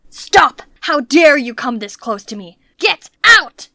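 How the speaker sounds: furious bark at her to back off; angry yell, short and loud; roaring in anger. Acted. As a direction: roar it, outraged at being approached. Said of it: "but he roared again".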